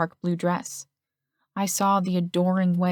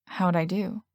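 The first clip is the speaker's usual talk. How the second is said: uncertain. A narrator's reading. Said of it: "Then he sounded uncertain".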